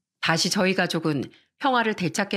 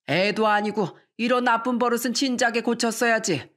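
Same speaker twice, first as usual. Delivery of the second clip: lightly voiced old father, nagging, a bit higher; a touch of a grumbling father scolding his son-in-law; 4 semitones higher than usual. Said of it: "이렇게 말씀하시더라고요".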